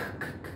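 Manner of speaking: very soft, unvoiced "c, c, c" bursts; whispered "c". Shown as a demonstration. Teacher demonstrating the "k" sound before "cancel". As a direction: breathe the "c" sound out. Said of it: "this one is c".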